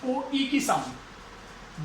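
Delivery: "ओ, ई" stretched very slowly and softly; teacher slowly demonstrating the sound; slow vowel demo. Shown as a demonstration. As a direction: hold "ओ" then glide to "ई". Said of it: "जैसे बॉय".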